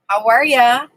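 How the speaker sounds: usual speaking voice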